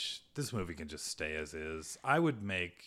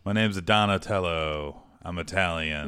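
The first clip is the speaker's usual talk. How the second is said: mock Italian accent; 9 dB louder than usual. Co-host suggests Italian for Donatello, mock Italian accent. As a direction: stretch it into a hammy Italian accent. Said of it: "It could be an Italian accent".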